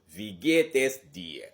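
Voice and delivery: loud, clear German greeting dialogue; model dialogue. Shown as a demonstration. Teacher plays both speakers greeting Laura, loud and clear. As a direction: act out both sides slowly. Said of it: "Vous voyez comment ça se passe".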